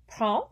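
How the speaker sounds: PREND stopping on its nasal vowel, no D; silent final D. Shown as a demonstration. Teacher repeating the example, silent final D. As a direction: drop the D ending prend. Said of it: "don't hear the D".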